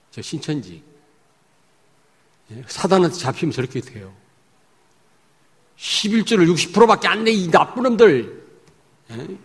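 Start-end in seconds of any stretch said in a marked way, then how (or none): 5.7-9.4 high, mock angry scolding; preacher mimics a leader scolding over tithes, hammed-up anger. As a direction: berate them like a cult leader. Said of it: "막 이래요".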